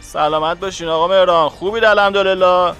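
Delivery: thin telephone-line greeting; voice over the phone. A narrator's reading. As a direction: answer a superior's call courteously. Colleague on the phone. (صدای پشت تلفن، مؤدبانه)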